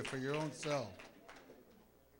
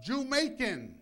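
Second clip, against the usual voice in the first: high, loud "JEW-maican" call; imitated yell; 8 semitones higher, 9 dB louder, slower than usual. Preacher retelling a lady in the Bronx, imitated yell. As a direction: yell it out like the lady hailing him. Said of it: "She yells out".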